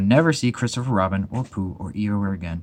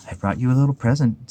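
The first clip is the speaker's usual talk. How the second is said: excitedly; 4 semitones higher than usual. Acted. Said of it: "said Pooh excitedly".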